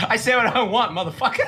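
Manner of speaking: cocky declaration with a laugh; half-joking bravado; mock defiant. Joking to a friend, mock defiant. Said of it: "I'm just playing".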